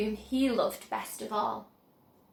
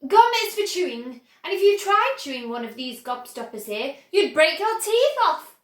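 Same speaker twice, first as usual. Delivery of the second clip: indignant; 2 semitones higher, 6 dB louder than usual. Acted. Wonka correcting Violet.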